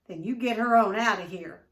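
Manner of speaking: loud, forceful order; hateful force. A narrator's reading. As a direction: force every word out with hate. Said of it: "he said with hateful force".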